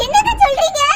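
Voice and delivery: mother stunned by the accusation; shocked. Acted. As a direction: gasp it out in disbelief. Shocked mother hears of pregnancy.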